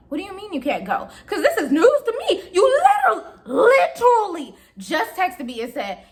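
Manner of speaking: retold aggravation creeping into the voice; aggravated. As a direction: act out growing disbelief at a friend. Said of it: "tone changes in your voice".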